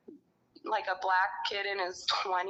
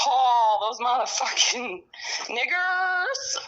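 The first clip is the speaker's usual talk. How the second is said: real fury; 2 semitones higher, 6 dB louder, slower than usual. Real, not acted. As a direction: spit it out, truly furious. Raging about the hostel staff.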